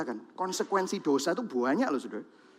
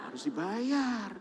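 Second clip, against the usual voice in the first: plain; 7 dB quieter, slower than usual. Real, not acted. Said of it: "plain statement then repeat".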